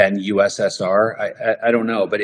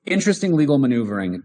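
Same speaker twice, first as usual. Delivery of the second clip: laughing through words; 4 semitones higher, faster than usual. Real, not acted.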